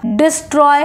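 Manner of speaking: "डिस्ट्रॉय" stressed on "ट्रॉय"; unstressed "डिस", stressed "ट्रॉय" in "डिस्ट्रॉय"; stress on second syllable. Shown as a demonstration. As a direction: put the pressure on "ट्रॉय" of "डिस्ट्रॉय". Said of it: "ट्रॉय बोलने में आपका stress लग रहा है".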